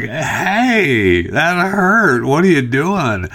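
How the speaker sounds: mock little kid, high and whiny; hurt kid. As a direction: imitate a startled kid protesting. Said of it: "the kids are like".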